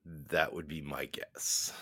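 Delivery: soft unvoiced whisper. Real, not acted. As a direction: whisper your guess. Whispered aside.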